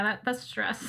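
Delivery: ordinary talk, nothing marked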